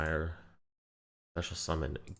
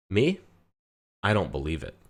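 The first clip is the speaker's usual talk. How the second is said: Skyrim NPC reply; 5 dB louder than usual. Retold or imitated. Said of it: "the line in Skyrim".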